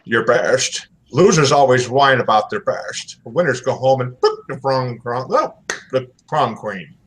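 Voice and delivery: a horrible Sean Connery accent attempt; a bad try at Sean Connery's Scottish accent. Host quotes The Rock in a bad Sean Connery accent. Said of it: "I'm gonna try to do an accent".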